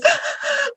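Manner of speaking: a high, sudden sobbing gasp; sharp crying gasp. Retold or imitated. Friend gasps as she bursts into tears. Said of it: "she burst out crying".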